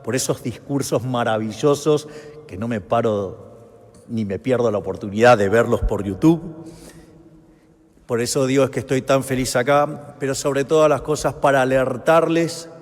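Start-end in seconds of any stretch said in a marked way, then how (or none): 2.5-12.7 booming balcony speech. Real, not acted. Rally speech to Spanish crowd.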